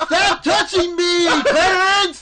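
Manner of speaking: put-on high, loud whiny kid; mock whiny voice. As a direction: squeal it like a bratty kid. Mock slap fight voice.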